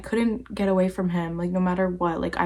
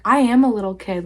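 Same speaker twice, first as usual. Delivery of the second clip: louder, emphatic mock outburst; retold snapping back; 6 dB louder than usual. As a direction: snap it back, re-enacting the argument. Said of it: "like, I snapped".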